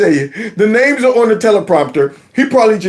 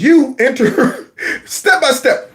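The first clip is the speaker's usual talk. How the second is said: reading while laughing; 3 semitones higher than usual. Shown as a demonstration. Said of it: "So it says".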